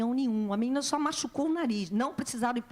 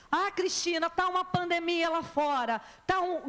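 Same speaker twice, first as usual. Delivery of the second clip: higher-pitched imitated protest; objecting congregant; 5 semitones higher than usual. Church member objecting to the preacher, mock protest. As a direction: mimic a worried objector, pitched up.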